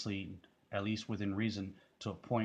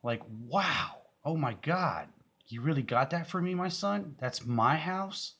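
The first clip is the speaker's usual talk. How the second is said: much higher and louder, slowing on the last words; imitating mom's amazement; 8 semitones higher, 6 dB louder, slower than usual. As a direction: play an overjoyed mother, voice leaping up. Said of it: "she's like".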